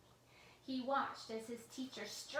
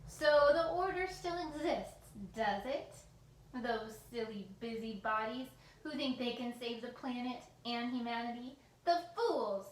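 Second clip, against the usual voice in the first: scornful rant; 2 semitones higher, 7 dB louder than usual. A narrator's reading. Villain mocking the Order, loud scornful rant. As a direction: sneer at the fools, loud.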